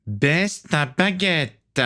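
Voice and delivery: très lent, chaque mot sifflé. A narrator's reading. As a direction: siffler l'ordre comme une menace. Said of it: "siffla Stradus". (le vampire Stradus siffle l'ordre à John, très lent)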